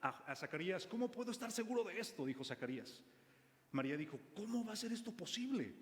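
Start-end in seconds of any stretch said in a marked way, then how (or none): 0.9-2.3 lightly voiced doubtful old priest, higher; a hint of incredulous Zacarías; doubting Zacarías. Zacarías questioning the angel, lightly voiced doubt. 4.3-5.7 lightly voiced puzzled María, higher; a hint of a young woman's wonder. María asking the angel how, lightly voiced wonder.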